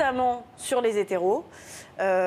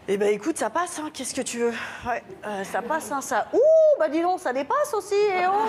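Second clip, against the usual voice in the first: first inner voice; 4 semitones higher than usual. Pretend. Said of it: "la première voix, elle me dit".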